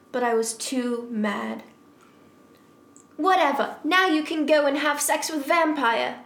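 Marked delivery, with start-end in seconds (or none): 3.2-6.2 raised, higher dismissive outburst; shouted retort. Acted. Heroine storming off from Draco, mildly shouted retort. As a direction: throw it back at him theatrically. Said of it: "I shouted".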